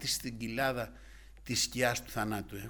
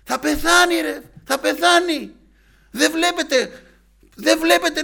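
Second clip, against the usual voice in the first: very high, full-volume acted alarm; shouting second doctor; 16 dB louder, slower than usual. Doctor berating colleagues that the man will die, furious shouting. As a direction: bawl out your colleagues in urgent outrage. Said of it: "και φωνάζει να φωνάζει. Τους έβριζε".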